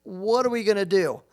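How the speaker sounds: mild mock alarm; panicked partner. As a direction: imitate the partner at the door in a panic. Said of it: "he's like".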